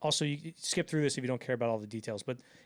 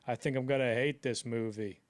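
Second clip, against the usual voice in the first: John Wayne. Acted. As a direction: attempt a movie cowboy, half-heartedly. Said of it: "I can't do his accent".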